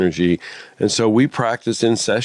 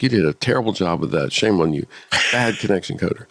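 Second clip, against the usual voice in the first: teasing; 3 semitones lower than usual. Retold or imitated. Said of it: "I'm teasing her".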